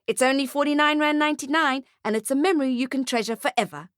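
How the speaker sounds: high-pitched sales patter; lilting salesman spiel; photographer's sales pitch. Acted. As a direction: pitch it to a reluctant customer.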